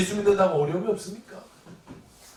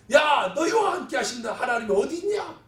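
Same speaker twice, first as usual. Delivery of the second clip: raised-pitch jeering dare; mocking challenge; 6 semitones higher than usual. Goliath mocking Israel's God, taunting challenge. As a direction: goad them into coming out to fight. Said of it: "그 하나님을 조롱하는 거예요".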